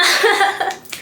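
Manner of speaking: mock a friend giggling at her phone; imitated giggle. Classmate laughing at her phone, mock giggle. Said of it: "She's steady laughing at her phone".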